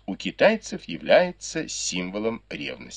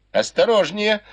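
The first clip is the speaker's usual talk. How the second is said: high, louder laughing call; laughing warning; 12 semitones higher, 4 dB louder than usual. Acted. Lady laughingly warning her maid, high and amused. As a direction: toss it off with a laugh. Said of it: "засмеялась Фэнзе".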